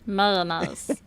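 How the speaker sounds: "Mayonnaise" in a put-on cartoon voice; character voice mayonnaise. Shown as a demonstration. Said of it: "Now say mayonnaise".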